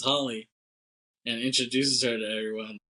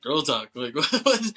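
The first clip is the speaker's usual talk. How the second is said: mock panic breaking into a laugh; freaking out; 3 semitones higher, 4 dB louder, slower than usual. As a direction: play the panicked guy, pitch climbing. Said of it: "Like, he's freaking out".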